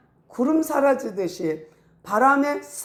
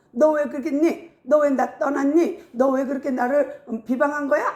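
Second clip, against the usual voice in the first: higher-pitched mock scolding; acted reproach; 4 semitones higher than usual. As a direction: demand answers, as if blaming them. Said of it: "그들에게 책망하고 싶지 않아".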